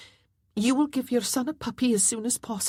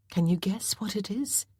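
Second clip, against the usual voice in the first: whisper; 5 semitones higher than usual. Acted. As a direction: breathe the question to the child. Mother whispers to son.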